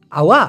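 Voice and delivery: আওয়া with the final k swallowed; Malay pronunciation. Shown as a demonstration. Teacher models Malay আওয়া for Bangla learners. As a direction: say আওয়া ending in a short catch. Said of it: "মালয়েশিয়ানরা এটাকে উচ্চারণ করে আওয়া".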